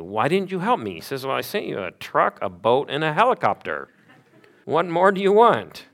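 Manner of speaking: rising to a high, loud exasperated reply; God throwing up his hands at the man. Acted. God answering the drowned man, exasperated and loud.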